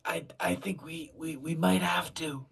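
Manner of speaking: loud urgent whisper; whisper yelling. Pretend. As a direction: hiss it loud but unvoiced. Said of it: "Why are we whispering?".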